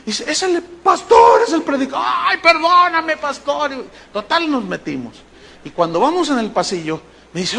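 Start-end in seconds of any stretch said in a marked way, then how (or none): 0.3-2.1 indignant outcry. Retold or imitated. Organizer tells usher who was shut out, appalled shout. 2.1-3.7 high, drawn-out mock wail; mortified apology. Begging the pastor's pardon at the door, high wailing apology.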